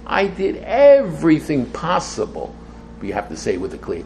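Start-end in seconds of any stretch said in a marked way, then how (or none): 0.1-2.5 challenging. Acted. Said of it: "I'm challenging God to say".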